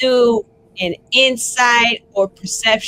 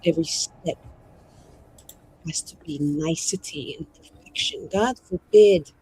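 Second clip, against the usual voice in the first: quiet, measured mage in character; restrained mage; 4 dB quieter, faster than usual. Acted. Mage answering the other about responsibility, quiet and restrained. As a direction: speak as the mage, softly and guardedly.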